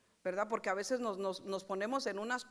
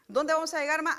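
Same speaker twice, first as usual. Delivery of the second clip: put-on louder, higher child's whine; child asking; 5 semitones higher, 8 dB louder than usual. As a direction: whine it like a tired kid asking mom. Niño pregunta a su mamá. (voz de niño cansado, más alta y fuerte)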